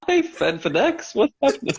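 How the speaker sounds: mock confusion. Real, not acted.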